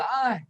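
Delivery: high, short mock "ay" of pain; imitated pain cry. Lecturer showing students empathetic pain, mock pained cry. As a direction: wince aloud at someone else's hurt. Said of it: "siento dolor, ¿no? Decimos".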